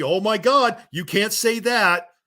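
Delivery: high, slow whiny mock outrage; mocking crybaby fan. Vlogger mocks crybaby wrestling fans, high and whiny. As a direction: whine it like a pearl-clutching crybaby. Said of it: "Every time you crybabies attack".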